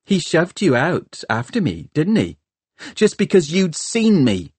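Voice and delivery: high-pitched, pressing taunt; mocking. A narrator's reading. Hester presses Tom about being pushed out, mocking. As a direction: taunt him with the truth. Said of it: "mocking him".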